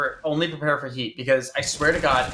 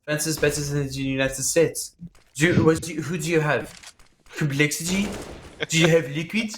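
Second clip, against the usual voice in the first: put-on French accent. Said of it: "extremely stereotypical French".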